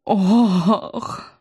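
long, exhaled "oh"; breathed-out gasp. A narrator's reading. Pale fortune-teller reacts to a grim tale, gasping. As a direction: breathe out a drawn-out oh. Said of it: "только и смогла выдохнуть бледная предсказательница".

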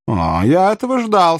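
rising, high-pitched royal 'aha'; knowing king. Acted. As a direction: react as if you saw it coming. King reacts to expected demand.

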